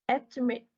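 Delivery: "estimate" stressed on "es"; stress on first syllable. Shown as a demonstration. Teacher giving an example for students, "estimate" stressed on its first syllable. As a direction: hit the opening syllable of "estimate". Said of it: "straight for on the first".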